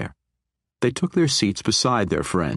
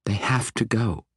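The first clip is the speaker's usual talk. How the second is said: insisting; 4 semitones higher than usual. Acted. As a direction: press the point without raising the voice. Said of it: "Catti Bree insisted".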